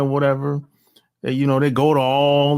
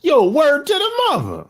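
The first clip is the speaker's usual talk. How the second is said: high mocking street-talk voice; mock wannabe slang; 11 semitones higher than usual. Telling how white guys in North America talk, mocking wannabe slang. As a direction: lampoon a white guy trying to sound street. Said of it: "the white dudes walking around".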